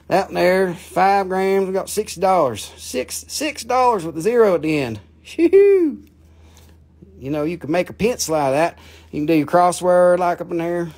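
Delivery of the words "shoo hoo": high, loud gleeful whoop; excited whoop. Real, not acted. Seller whooping at a glassy aquamarine, thrilled and loud. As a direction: let it burst out, thrilled. Excited over his six dollar price.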